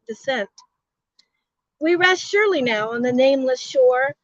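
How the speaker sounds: grand rhythmic bard; poem reading. Acted. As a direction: recite it like an epic poem. Reads son's poem aloud.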